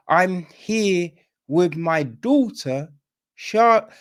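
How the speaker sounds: slow, overdone line naming the daughter; mock the stiff film dialogue; stilted movie line. Shown as a demonstration. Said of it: "You wouldn't have to say the name like that".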